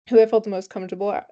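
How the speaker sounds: talking around a retainer; words slurred by retainers; wearing a retainer. Real, not acted. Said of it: "I swear I can't talk with these retainers".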